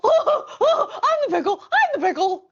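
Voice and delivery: high, laughing squeal of the line. Real, not acted. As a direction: giggle it out playfully. Playful game with child.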